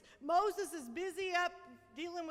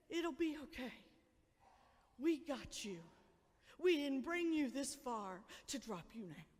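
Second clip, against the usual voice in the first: softer, lower, gentle; reassuring; 3 semitones lower, 4 dB quieter than usual. Acted. Parents reassuring frightened kids, gentle reassurance. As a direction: comfort a frightened child. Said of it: "to say".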